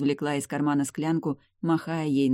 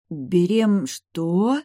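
choking on air; 4 semitones higher, 6 dB louder, much slower than usual. A narrator's reading. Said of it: "захлебнулась воздухом я".

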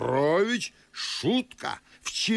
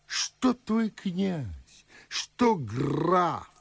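slow, drawn-out rhetorical flourish; grand awe; 2 semitones higher, much slower than usual. Acted. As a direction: stretch it out with lofty admiration. Proud tale of grand uncle.

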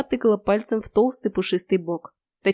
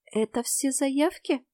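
bleating; 6 semitones higher, 4 dB quieter, slower than usual. A narrator's reading. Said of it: "проблеяла я".

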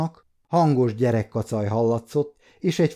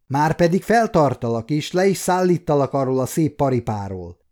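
angry; 3 semitones higher than usual. Acted. Guard angrily refuses to let the rider pass. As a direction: threaten him, getting heated. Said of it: "mérgelődött a fegyveres".

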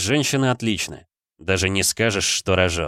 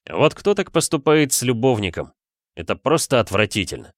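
indignant; 3 semitones higher than usual. Acted. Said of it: "возмутился я".

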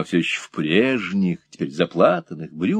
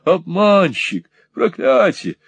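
high angry shout; high furious cries; 8 semitones higher, slower than usual. Acted. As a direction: keep hurling it at him, high. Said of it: "кричала леди".

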